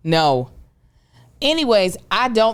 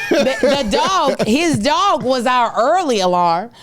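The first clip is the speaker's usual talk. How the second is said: laughing while talking; 7 semitones higher, slower than usual. Real, not acted. Laughing while telling about dog.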